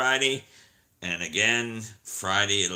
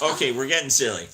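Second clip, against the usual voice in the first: laughing; 3 semitones higher, 7 dB louder, faster than usual. Real, not acted. Laughs at themselves.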